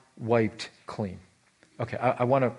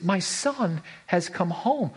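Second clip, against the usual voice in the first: slow, drawn-out fatherly joy; mild rejoicing; 4 semitones higher, slower than usual. Acted. Father welcoming his prodigal son home, understated rejoicing. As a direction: savor each word of the welcome. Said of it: "The father rejoices".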